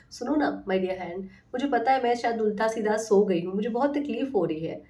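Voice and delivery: sweetly coaxing her own hand; tender coaxing self-talk, lightly done; loving coaxing. Retold or imitated. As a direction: plead gently, like soothing a friend. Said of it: "मैं बहुत प्यार से बात करती हूँ".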